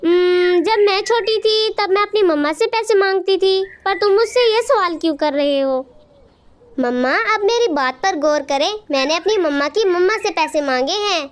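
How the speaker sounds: ordinary delivery, nothing marked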